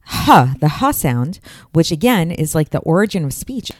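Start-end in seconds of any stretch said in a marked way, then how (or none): 0.1-1.4 "Ha" as a slow breathy exhale; breathy ha sound. Shown as a demonstration. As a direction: breathe out "Ha" like an open sigh. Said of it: "the way it sounds".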